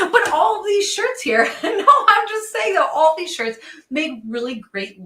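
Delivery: laughing through the words; giggling while talking. Real, not acted. Laughing at scrolling to the wrong products.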